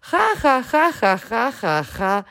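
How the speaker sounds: high burst of acted laughter; hearty hammed-up guffaw; roaring laughter. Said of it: "Как зальётся буква Х".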